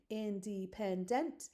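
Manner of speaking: independent slowly split into four even beats; syllable by syllable. Shown as a demonstration. Teacher doing a syllable check, slow separated word. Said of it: "Let's do a syllable check".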